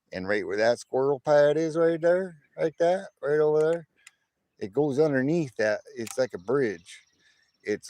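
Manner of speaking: put-on West Texas country accent; imitation West Texas accent with emphatic bursts; West Texas Stacker. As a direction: tell it like a folksy West Texan. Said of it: "I'll do a West Texas stacker accent".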